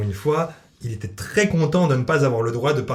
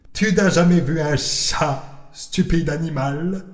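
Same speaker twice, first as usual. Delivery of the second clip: slow, drawn-out cartoon cat voice, higher; Salem the cat; 4 semitones higher, slower than usual. Cat Salem eyeing the parrot, slow and sly. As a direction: savour each word like a sly cat spotting prey. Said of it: "pensa Salem".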